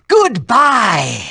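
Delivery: shouted goodbye. Acted. Villain to her son, a shouted farewell. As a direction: bark a final goodbye.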